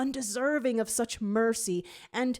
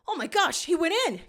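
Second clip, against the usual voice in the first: much higher and louder gasp; shocked exclaim; 10 semitones higher, 6 dB louder, faster than usual. A narrator's reading. Gadget sees Barker vanish, high shocked cry. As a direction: blurt it out in shock. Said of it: "Gadget exclaims, shocked".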